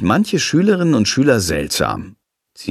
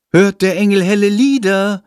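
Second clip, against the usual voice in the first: high, fluting sing-song; 9 semitones higher, 3 dB louder than usual. A narrator's reading. Lilly teasing Friedrich in his ear, high and fluting. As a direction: trill it sweetly into his ear. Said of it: "flötet sie Friedrich ins Ohr".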